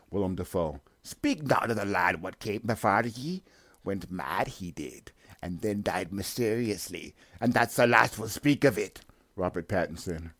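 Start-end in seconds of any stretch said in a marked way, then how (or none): 1.0-9.0 put-on old sea captain. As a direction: growl orders like a crusty sea captain. Captain warns of predecessor.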